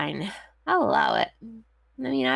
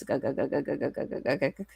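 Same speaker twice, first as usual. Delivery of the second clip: choppy fan-warbled voice; like speaking through a fan, Darth Vader-ish; 6 semitones lower, 6 dB quieter than usual. Retold or imitated. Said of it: "sound sort of like Darth Vader".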